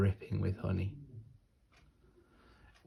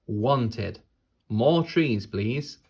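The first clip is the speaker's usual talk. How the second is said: mock demand; 6 dB louder, much slower than usual. Child's sign read aloud.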